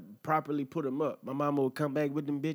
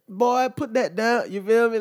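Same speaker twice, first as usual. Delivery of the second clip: yell; 10 semitones higher, 9 dB louder than usual. Retold or imitated. Yelling at the kid's sandwich.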